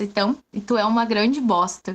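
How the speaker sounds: ordinary delivery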